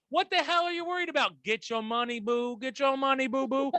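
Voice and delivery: sassy hype. Pretend. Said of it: "That's what Jourdain has to say".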